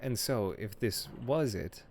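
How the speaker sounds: lightly voiced librarian, politely evasive; a hint of a prim librarian dodging the question. Game master voicing a librarian who dodges the players' question, politely evasive.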